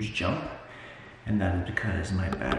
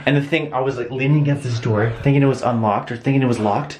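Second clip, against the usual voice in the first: loud, high, rushed words; frantic retelling; 7 semitones higher, 8 dB louder than usual. Real, not acted. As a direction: tell it fast, still scared. Excited scared retelling.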